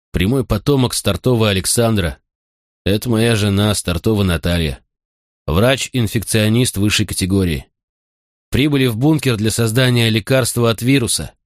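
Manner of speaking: lightly voiced rasp through pain; hoarse rasp. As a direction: rasp it out, hurting. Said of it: "прохрипел отец сквозь боль".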